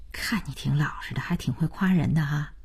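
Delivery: softly amused thanks, a little low; a light laugh, then soft grateful praise. A narrator's reading. Wife gratefully praising her honest man, softly amused. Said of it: "建英感激地冲着大廖笑".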